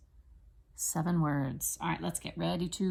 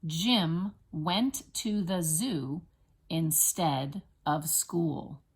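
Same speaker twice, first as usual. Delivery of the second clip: slow, each word set apart; deliberate classroom count-along pacing; much slower than usual. Shown as a demonstration. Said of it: "Let's count it out this time".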